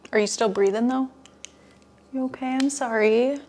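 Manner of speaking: ordinary delivery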